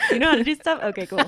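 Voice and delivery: put-on high, bubbly valley girl voice; white girl voice. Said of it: "That was my white girl voice".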